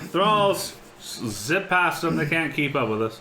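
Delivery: muffled behind a hand; hand over mouth. Real, not acted. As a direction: speak through your hand. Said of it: "I can hear you with your hand over your mouth".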